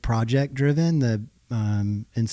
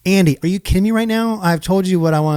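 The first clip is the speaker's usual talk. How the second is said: higher, louder mock outrage; exasperated wife; 7 semitones higher, 5 dB louder, faster than usual. Husband imitating his wife's exasperation. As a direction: play the wife losing patience.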